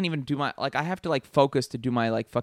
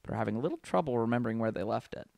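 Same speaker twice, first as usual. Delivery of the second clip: measured tagline read, dropping away on the punchline; 4 semitones lower than usual. Acted. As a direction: read out a movie poster line. Reads out a movie tagline.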